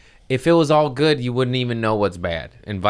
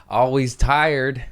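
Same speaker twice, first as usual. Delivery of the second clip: slow stretched catchphrase; 5 semitones higher, much slower than usual. Acted. Host announcing his tired motto, slow and drawn out. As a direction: stretch Always tired like a weary slogan.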